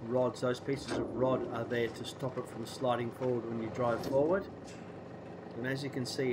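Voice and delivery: blocked nose, nasal from a cold. Real, not acted. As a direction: talk through a stuffy nose. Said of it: "hopefully my nasally voice will have".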